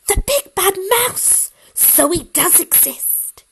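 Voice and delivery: put-on a child suddenly believing; surprised high child voice; startled child.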